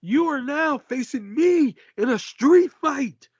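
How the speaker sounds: high, slow Arab accent impression; a rapper with Arab accent. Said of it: "I gave him an Arab accent".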